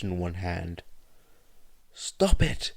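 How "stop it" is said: high, loud shout. A narrator's reading. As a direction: yell it out in anguish. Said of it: "he shouted".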